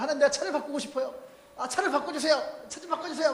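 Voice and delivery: hammed-up pleading with God for a new car; imitating a believer begging for a car; mock earnest pleading. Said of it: "간절하게 기도한 거예요".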